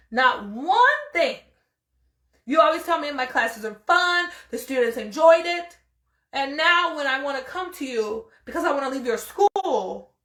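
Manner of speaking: rising exasperated complaint, peaking on sideways; indignant protest. Retold or imitated. Retelling her protest to the school.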